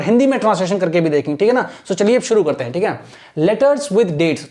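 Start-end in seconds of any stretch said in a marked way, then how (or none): 3.4-4.5 slow, measured English reading; model reading. Shown as a demonstration. Teacher introducing the paragraph heading, model reading. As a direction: read it out slowly for learners. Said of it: "सबसे पहले मैं reading कर रहा हूँ".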